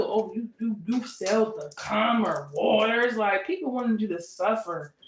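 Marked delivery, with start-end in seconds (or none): 0.0-3.2 mocking Pisces. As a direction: drag it out like you're mimicking a bitter rival. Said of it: "that's why this Pisces mad too".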